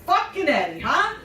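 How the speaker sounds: imitating a grouchy New York boss; loud as hell. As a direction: commiserate gruffly at full voice. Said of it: "just loud as hell".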